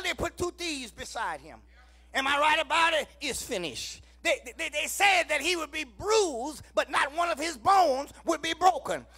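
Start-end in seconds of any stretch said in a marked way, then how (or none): 4.2-9.0 loud, rhythmic whooping sermon cadence; full-force preaching. Acted. Preacher rousing the congregation, loud whooping preaching. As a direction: preach it out to the whole church. Preacher listing prophecies fulfilled.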